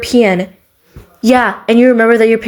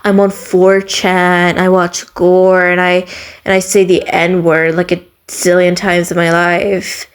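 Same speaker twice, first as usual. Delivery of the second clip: mocked edgy poser; 3 semitones lower, slower than usual. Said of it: "giving me those, like".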